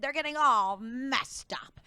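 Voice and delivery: whispered aside. Acted. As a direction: breathe it out as a secret.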